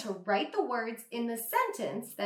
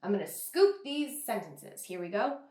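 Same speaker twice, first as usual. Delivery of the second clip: ordinary talk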